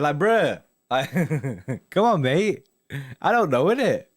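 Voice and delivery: high and loud, laughing protest; exasperated. Real, not acted. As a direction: come on, give it a rest. Still exasperated at chat spam.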